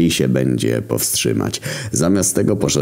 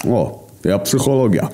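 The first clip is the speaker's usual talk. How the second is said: Głód boasting; 7 semitones higher than usual. A narrator's reading. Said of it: "pochwalił się Głód".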